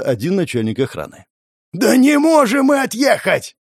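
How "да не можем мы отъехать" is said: loud desperate yell, slowed; shouting over the wind. A narrator's reading. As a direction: bellow it against a blizzard. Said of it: "заорал Константин".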